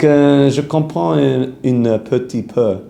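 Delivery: slow, hesitant French, drawn out; halting beginner French. Acted. Suitor admitting he barely speaks the girl's French, haltingly. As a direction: stumble through it like a beginner in French.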